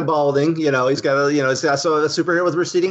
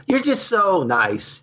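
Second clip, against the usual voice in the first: slow drawn-out line; 5 semitones higher, much slower than usual. Retold or imitated. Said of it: "the recurring".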